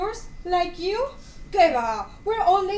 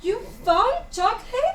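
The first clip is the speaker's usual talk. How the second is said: higher, laughing question; delighted surprise; 9 semitones higher, 3 dB louder than usual. Acted. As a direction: gasp with glee.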